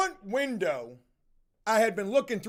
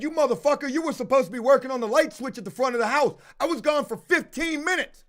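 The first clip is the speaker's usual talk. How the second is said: angry; 4 semitones higher than usual. Retold or imitated. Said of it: "I said".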